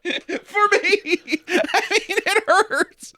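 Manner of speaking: very high, mock-tearful squeal; hospital patient. Playing the hurt hospital patient, high tearful whine. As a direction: whimper it high through laughter. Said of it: "in a hospital someplace going like".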